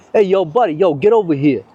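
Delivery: mock American street-guy accent; put-on street accent. Imagined passer-by summoning the film crew, put-on street accent. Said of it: "or which other accent I can do".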